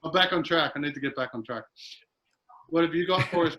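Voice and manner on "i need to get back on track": whispered under the breath; whispering. Real, not acted. Muttered to himself.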